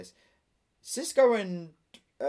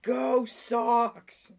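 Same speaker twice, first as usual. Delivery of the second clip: loud, high Boston fan cheer; Boston accent; 10 semitones higher, 6 dB louder than usual. Acted. Friend joins the Boston bit, cheering in a Boston accent. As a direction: holler it like a Boston sports fan. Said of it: "in a Boston accent".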